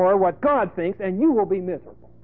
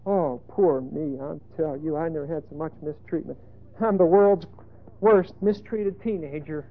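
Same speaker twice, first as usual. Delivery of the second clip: wallow in mock self-pity; put-on woe-is-me lament; mock moping. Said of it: "Go mope in jail".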